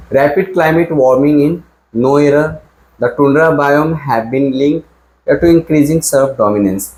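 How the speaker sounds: reading the question slowly, word by word; teacher reading an exam sentence aloud; slow dictation reading. Shown as a demonstration. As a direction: read "Rapid climate warming in the tundra biome" very slowly. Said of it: "देखो".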